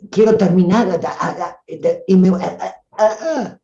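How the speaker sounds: stuck repeating a, a, a, unable to finish; nervous stutter that won't let the word out; stutter demo. Shown as a demonstration. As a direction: stammer anxiously on the first sound. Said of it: "la tartamudez".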